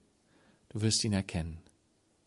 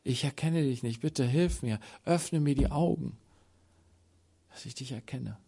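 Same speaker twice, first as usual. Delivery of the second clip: inner cry; 6 dB quieter than usual. Acted. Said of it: "der in seiner Seele schreit".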